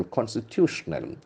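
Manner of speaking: constitutional with the beat on "tu"; stress on third syllable. Shown as a demonstration. Teacher modelling the word for students, stress on "tu". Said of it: "The accent falls from the third syllable".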